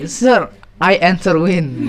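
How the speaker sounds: slow, halting fake English of a confused student; mock student's slow English. Teacher mimics a student answering in literal English, slow and halting. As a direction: spell it out slowly like a lost pupil. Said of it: "Jadi kamu jawab".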